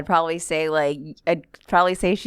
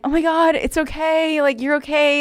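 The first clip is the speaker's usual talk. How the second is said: retold reassurance; 9 semitones higher, 3 dB louder than usual. Soothing a crying heckler.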